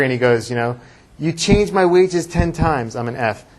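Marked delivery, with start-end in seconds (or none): 1.2-3.0 slow, higher, louder retold anger at "You changed my wages ten times."; angry. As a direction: Jacob confronting Lavan, voiced by the teacher with slow, raised anger. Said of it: "he's very angry".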